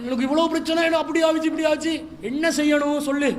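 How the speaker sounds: lightly hammed-up poor-me lament; mock tearful complaint. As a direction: imitate a husband crying to get his way. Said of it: "அழுகுறான்".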